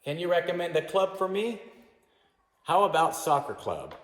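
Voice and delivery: teacher acting out the model dialogue loudly; modelled dialogue. Shown as a demonstration. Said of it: "Which one is the best?".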